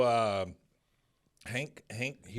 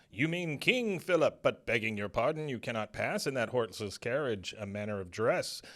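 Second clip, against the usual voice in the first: mock Renaissance guard; 2 semitones higher than usual. Retelling the gate guard turning Hank away, mock olde speech. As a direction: play a stiff fair guard in mock old English. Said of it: "He goes".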